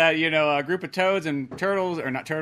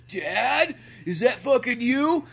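mock Fox; 9 semitones higher, 4 dB louder, much slower than usual. Voicing Fox seeing his dad.

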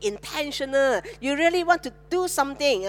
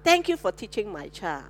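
softer, lower grateful thanks; sincere thanks; 4 semitones lower, 4 dB quieter than usual. Retold or imitated. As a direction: thank the teacher gently and sincerely. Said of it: "But rather go and thank the teacher".

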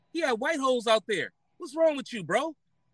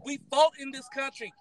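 yelling; 4 semitones higher than usual. Real, not acted. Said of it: "this is no reason to yell".

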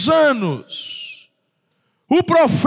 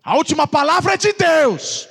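hammed-up believer declaring the cure; mock bold declaration; 6 semitones higher than usual. A believer rejects bad news, boldly declaring healing. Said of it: "Aí você fala".

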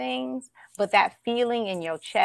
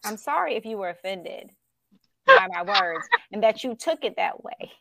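fake apology. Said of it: "She said a non-apology apology".

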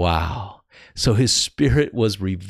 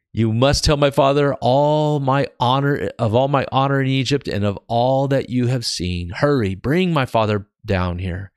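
emphatic Bible reading aloud; scripture reading; 5 semitones higher, 4 dB louder than usual. Acted. Preacher reading Joseph's charge to his brothers, emphatic scripture reading. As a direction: read out Joseph's urgent charge.

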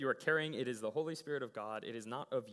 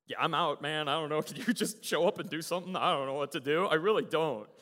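louder re-enacted plea of helplessness; desperate plea; 8 dB louder than usual. Worn-out team praying to God, desperate plea. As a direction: throw it up to God, out of ideas.

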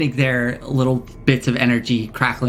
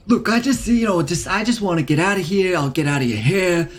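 put-on lightly done Queens wise-guy accent; a small creature talking like a guy from Queens; light New York Queens accent, a touch brash. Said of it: "I'm from Queens".

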